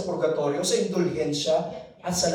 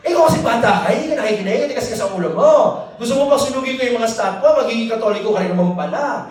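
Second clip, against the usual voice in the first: mock scolding mother; 3 semitones higher, 6 dB louder, faster than usual. Mother's teasing scolding retold.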